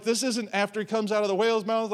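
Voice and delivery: ordinary talk, nothing marked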